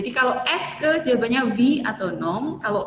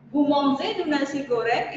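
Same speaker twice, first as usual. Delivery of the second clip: "Vous mangez du nasi goreng" with the pitch rising on "goreng" at the end; rising question intonation; 2 semitones higher than usual. Shown as a demonstration. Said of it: "naikkan intonasi di belakang".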